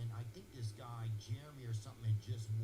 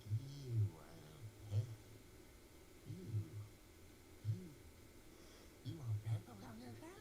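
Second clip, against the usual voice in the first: stammering waiter; 3 semitones higher, 5 dB quieter than usual. Retold or imitated. Stammering waiter retold, slowed then fast.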